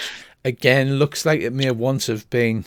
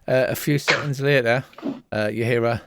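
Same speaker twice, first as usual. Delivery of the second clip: usual speaking voice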